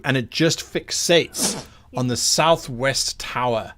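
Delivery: measured dramatic scene-setting with lingering key words; game master narration. Acted. Game master describing a monster's entrance to players, dramatic narration. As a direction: paint the scene, drawing out the menace.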